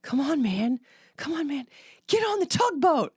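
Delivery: hammed-up teen calling to his squad; imitating teen gamer. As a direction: mimic the boy yelling at his team. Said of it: "He's like".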